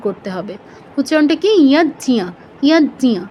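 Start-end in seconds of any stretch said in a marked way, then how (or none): 1.7-3.2 ইয় জিয় as yaj-nya, falling, no g; light j, full nya in ইয় জিয়; Sanskrit jña demo. Shown as a demonstration. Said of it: "এরকম". (যজ্ঞ, জ ও ঞ স্পষ্ট)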